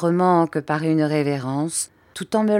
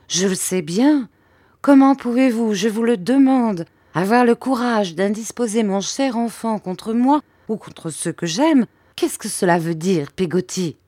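reproachful mother; 5 semitones higher than usual. Acted. Mother scolds Peggotty.

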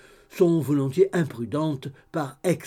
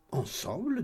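surprised; 6 semitones higher, 6 dB quieter, slower than usual. A narrator's reading. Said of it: "avec un air de surprise".

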